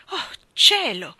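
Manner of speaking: high, loud, slow cry of dismay; shaken exclamation. A narrator's reading. She cries out at Mark's marriage proposal, high and loud. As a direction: cry out, overwhelmed. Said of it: "esclamai sconvolta".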